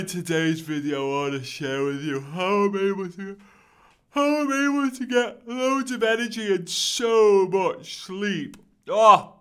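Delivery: tired, dragging host intro, low and drowsy; low energy. Shown as a demonstration. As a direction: sound half asleep and flat. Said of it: "don't be doing that with a low energy".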